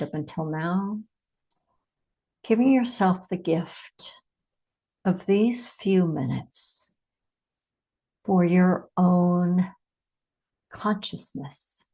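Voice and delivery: measured meditation delivery with long pauses; unhurried meditation leader, phrase by phrase; guided meditation. Acted. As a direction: guide listeners inward, leaving space after each phrase.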